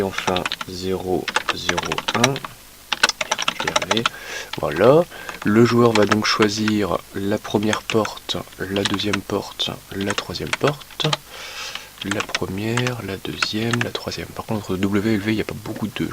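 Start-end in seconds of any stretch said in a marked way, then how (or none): 5.4-11.1 very slow, spelling it out while writing; slow dictation. Real, not acted. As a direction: drag each word as you write it down. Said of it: "slow dictation while writing".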